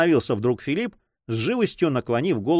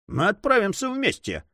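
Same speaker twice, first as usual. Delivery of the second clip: higher, eager offer; mildly lively; 8 semitones higher than usual. A narrator's reading. Pierre offers to go along with his friend, lively. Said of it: "с живостью сказал Пьер".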